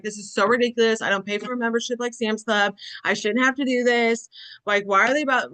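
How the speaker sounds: mildly imitated passive-aggressive griping. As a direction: retell an indignant complaint with a light passive-aggressive edge. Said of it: "just outwardly passive aggressively".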